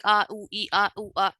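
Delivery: string of disconnected vowel noises; imitating a stumped caller's "aa, oo, ee"; mock tongue-tied stammer. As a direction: act lost for words on a call. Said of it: "in that situation you will be like".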